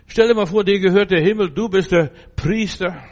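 hoch und laut hinausgerufen, mit Nachdruck; lauter Predigtausruf. Real, not acted. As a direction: ruf es der Gemeinde begeistert zu. Predigt mit voller Kraft. (laut und hoch gepredigt)

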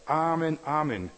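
Jesus opening his words with amen; emphatic amen. Retold or imitated. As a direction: proclaim it with authority. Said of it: "hat er gesagt".

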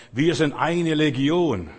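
the possessed man's demons declaring themselves. Acted. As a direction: boom it out as the legion of demons. Demon speaks through possessed man.

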